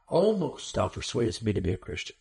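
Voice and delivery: hammed-up near tears, as the old sermons play him; mock tearful plea. Preacher mimics sermons' weepy Agrippa, a mock tearful plea. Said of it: "he's about to weep and fall off of his throne".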